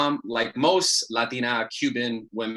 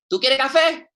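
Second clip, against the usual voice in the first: put-on high sing-song old grandma offering; imitating abuela; 10 semitones higher, 6 dB louder than usual. Grandma offers her grandson coffee at dawn. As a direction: coax him like a sweet grandmother.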